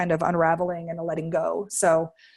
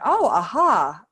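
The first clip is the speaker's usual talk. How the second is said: louder mock aha moment; imitated realization; 2 semitones higher, 5 dB louder, slower than usual. Host imitating co-host having a realization, playful aha. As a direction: act out someone suddenly getting it. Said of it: "Katie's kinda, like, going".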